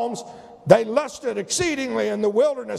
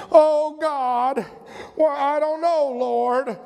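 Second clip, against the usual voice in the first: Lot's whine; 3 semitones higher, slower than usual. Retold or imitated. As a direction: whine it like a reluctant Lot. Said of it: "that's what Lot sounded like".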